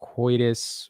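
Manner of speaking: coitus stretched very slowly as wɔɪ-dɪs; drawn-out pronunciation. Shown as a demonstration. Streamer defending how he says coitus, stretched out. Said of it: "The coitus pronunciation".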